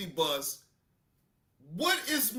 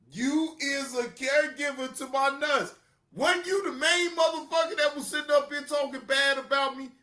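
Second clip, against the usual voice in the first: higher, louder, fast accusing; mock scolding shout; 5 semitones higher, 3 dB louder than usual. The speaker scolding fickle fans, shouted. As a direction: throw it back at them, fast.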